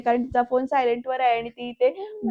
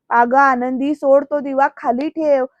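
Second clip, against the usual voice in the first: a louder retold shout, calling out; 4 dB louder than usual. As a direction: urge her loudly to drop the lamp. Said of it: "आरडाओरडा चाललाय आरतीचा". (ओरडून सांगितलेली नक्कल)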